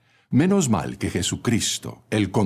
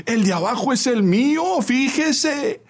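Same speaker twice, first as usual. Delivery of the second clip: high-pitched loud protest. A narrator's reading. Lady trodden on by a passenger, very loud voice. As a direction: cry out indignantly, very high. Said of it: "en voz muy alta dijo".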